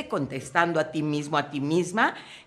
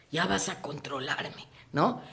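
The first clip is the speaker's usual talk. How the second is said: softer, lower sulky snap-back; irritated retort; 4 semitones lower, 6 dB quieter than usual. Retold or imitated. Drinking partner irritated at being told off, sulky. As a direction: push back at being controlled. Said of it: "se irrita".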